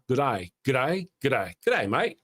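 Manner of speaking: put-on a weak, half-hearted Australian accent; bad Australian accent. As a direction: try an Australian greeting and miss the accent. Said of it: "I don't do a very good Australian accent".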